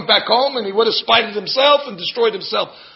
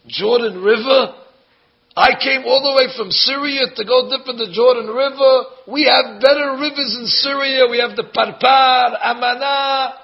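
louder and higher, outraged rant; indignant outburst; 5 semitones higher, 3 dB louder than usual. Retold or imitated. Preacher acting Naaman's outraged tirade, loud and high. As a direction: rant like an offended general. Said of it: "He's flipping".

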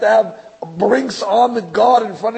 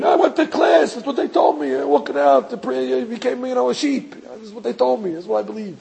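naive student; 4 semitones higher than usual. Retold or imitated. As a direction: play the naive sheep who just followed.

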